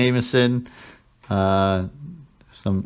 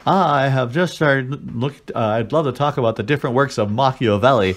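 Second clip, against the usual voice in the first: imitating a pompous diner; 2 semitones higher than usual. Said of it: "one guy's like".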